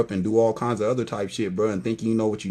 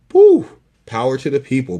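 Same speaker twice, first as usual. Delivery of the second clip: hyped shout; 8 dB louder than usual. Real, not acted. Hyping up the crowd.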